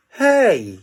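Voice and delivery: high, sudden alarm; alarmed cry. Acted. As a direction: call out in sudden worry. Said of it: "he cried".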